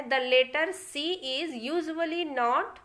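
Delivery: very slow, deliberate reading; slow rule reading. Shown as a demonstration. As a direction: read it out slowly for the class. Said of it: "इसका rule one है". (धीमी गति से नियम पढ़ना)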